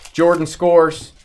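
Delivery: loud, slow announcer call. Pretend. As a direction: call it like a finals highlight. Calling a game moment by moment.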